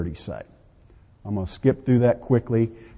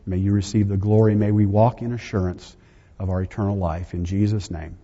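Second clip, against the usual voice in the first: lower, even-toned spoken prayer; closing prayer; 3 semitones lower than usual. Real, not acted. Preacher thanking God for the day to close, reverent prayer. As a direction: pray aloud, settling lower toward the amen.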